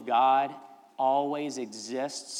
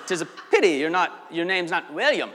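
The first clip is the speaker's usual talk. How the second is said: mock Scottish brogue, laughing through it; light Scottish impression with a chuckle; Scottish accent; 5 semitones higher, 6 dB louder than usual. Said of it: "This is a really good Scottish accent".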